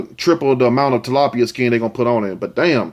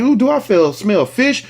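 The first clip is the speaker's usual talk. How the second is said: mock disgusted partner; 7 semitones higher than usual.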